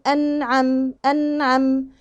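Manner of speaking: "أنعم" with the ن sustained briefly; held noon and ayn. Shown as a demonstration. Teacher shows the timing on noon and ayn, held evenly. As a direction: linger on the consonants in "أنعم". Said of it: "أجي عند العين هنا هقول".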